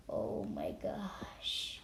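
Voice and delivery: slow frightened whisper, trailing into a murmur; whispered panic. Retold or imitated. Kid retelling his injury, whispered panic. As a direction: breathe it out in shock.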